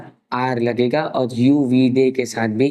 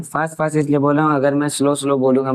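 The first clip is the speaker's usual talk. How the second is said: fast talking; faster than usual. Real, not acted. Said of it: "आज मैं थोड़ा सा फास्ट फास्ट बोल रहा हूँ".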